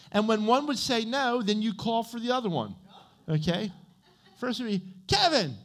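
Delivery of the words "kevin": calling out a name. Retold or imitated. Calling brother as a kid.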